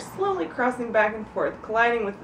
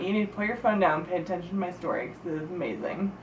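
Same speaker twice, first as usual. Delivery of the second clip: quick mock-stern telling off; scolding; 5 semitones lower, 5 dB quieter, faster than usual. Real, not acted. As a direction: snap at them to listen. Scolds listener on phone.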